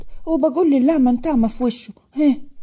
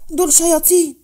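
higher, louder cry of outrage; outraged outburst; 6 semitones higher, 4 dB louder than usual. Acted. Rahma to Manal about the Rifaiya family, outraged. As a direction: spit out the insult in fury.

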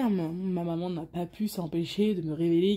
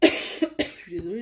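coughing after swallowing wrong; words through a choking cough; choking on a drink; 2 semitones lower, 5 dB louder than usual. Real, not acted. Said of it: "j'ai avalé de travers".

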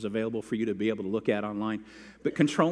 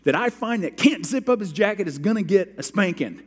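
raised, louder stern teacher warning; stern teacher threat; 6 semitones higher, 5 dB louder than usual. Retold or imitated. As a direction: lay down the law to the class. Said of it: "she said".

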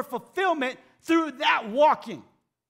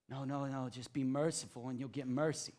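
much lower and softer, calm; soft reassuring answer; gentle correction; 9 semitones lower, 10 dB quieter than usual. Real, not acted. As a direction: settle them kindly.

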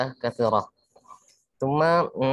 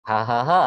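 mock flat laugh; 2 semitones lower than usual. Shown as a demonstration. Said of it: "sami'tu minal mushtarikin ad-dhahak faqat".

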